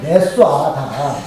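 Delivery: slow, drawn-out Jeolla dialect. Shown as a demonstration. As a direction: stretch out the Jeolla word playfully. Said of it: "전라도 사투리로?".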